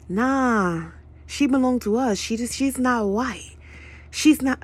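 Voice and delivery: rough imitation of a Middle Eastern accent; imitated Middle Eastern accent. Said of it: "I did a, a fucking imitation of a, a motherfucking accent".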